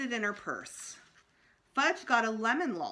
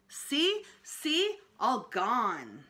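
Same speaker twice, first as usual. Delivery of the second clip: put-on high little-kid chirp; toddler voice; 5 semitones higher, 3 dB louder, much slower than usual. A narrator's reading. Fudge showing Mister Berman his missing teeth in a toddler voice. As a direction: show off like a gap-toothed toddler.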